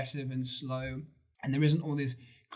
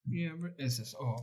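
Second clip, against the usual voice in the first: imitating the preacher; 2 semitones higher, 5 dB quieter than usual. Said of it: "it's the way he sort of says it".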